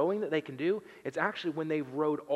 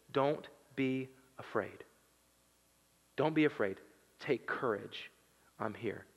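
calm reassurance; 2 semitones lower than usual. Acted. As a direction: settle them gently. Jesus calms the frightened disciples.

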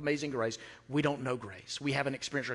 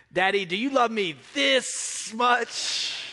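put-on high, slow small child asking; little girl voice; 8 semitones higher, 4 dB louder, slower than usual. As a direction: pitch way up like a scared three-year-old. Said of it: "And she said".

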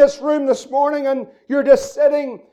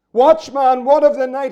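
emphatic cry; 4 dB louder than usual. Retold or imitated. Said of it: "It was like an emphatic cry".

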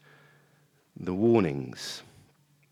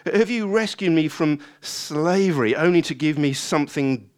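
accusing complaint to God; grumbling at God; 4 semitones higher, 4 dB louder than usual. Acted. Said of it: "grumbling can be like a gateway drug".

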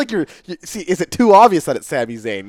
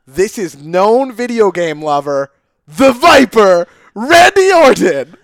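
announcer intro; 5 dB louder, slower than usual. Pretend. Ring announcer intro of wrestler.

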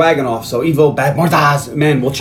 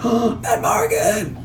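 calling; 8 semitones higher, 4 dB quieter, slower than usual. Retold or imitated. Willow calling from tree.

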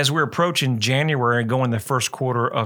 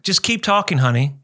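higher, mock-sweet wife voice; imitating wife; 5 semitones higher, 3 dB louder than usual. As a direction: play the wife, a few notes up. Husband voicing his wife at home.

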